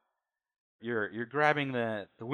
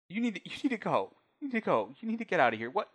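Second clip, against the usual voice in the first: distraught woman ordering them out; 6 semitones higher, 3 dB louder than usual. Acted.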